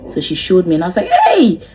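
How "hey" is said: high, loud laughing exclamation; startled laughing cry; shocked laugh. Real, not acted. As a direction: yelp in surprise and laugh. Seeing blood, laughing.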